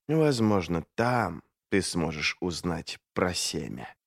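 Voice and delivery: low hoarse female whisper, slow; dark whisper behind you. A narrator's reading. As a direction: breathe «Возможно» close to his neck. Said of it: "Низкий, хриплый голос".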